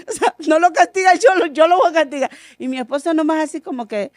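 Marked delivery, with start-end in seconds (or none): 0.1-2.3 insistent. Retold or imitated. Insisting she will punish.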